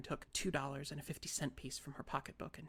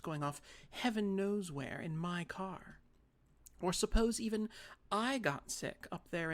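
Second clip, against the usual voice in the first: put-on prim older sister; 4 semitones higher, 4 dB louder than usual. Carrie pleading her case.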